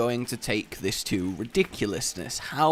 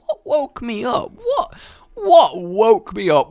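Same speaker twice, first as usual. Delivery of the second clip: loud, slow, wailing complaint; hammed-up groggy fury; mock outrage; 9 semitones higher, 7 dB louder than usual. Retold waking rage.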